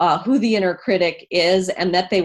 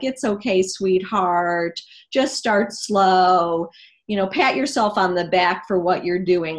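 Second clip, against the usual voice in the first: compassionate. Retold or imitated. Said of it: "the compassionate voice would say".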